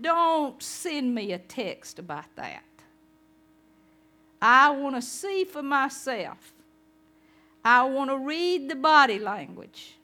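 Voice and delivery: insistent doubter. Acted.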